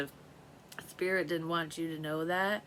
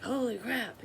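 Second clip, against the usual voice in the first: startled exclamation; 7 semitones higher, 4 dB louder than usual. Retold or imitated. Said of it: "she was like".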